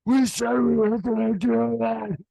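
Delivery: put-on loud, high wailing kid voice; hammed-up child's meltdown; imitating upset child. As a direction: cry it out like a betrayed little boy. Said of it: "his face just fucking drops".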